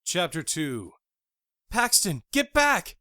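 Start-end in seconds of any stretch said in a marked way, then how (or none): 1.7-3.0 high, loud warning holler. Acted. Jackie warning Paxton away from Tony, high holler. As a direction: yell a warning across the hall. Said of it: "Jackie hollered over my screams".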